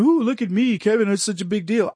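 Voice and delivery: preen like a show-off; mock vanity. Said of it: "I'm not saying it because".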